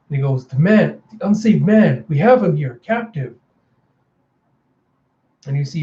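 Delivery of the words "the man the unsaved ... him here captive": louder, higher nervous soldier; urgent report. Acted. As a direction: blurt out news to the boss. Soldier hastily reports to Mother.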